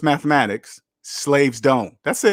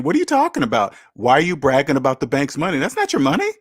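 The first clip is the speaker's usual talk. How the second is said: incredulous; faster than usual. Acted. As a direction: act out baffled disbelief, pitch climbing. Acting out a baffled listener's reply.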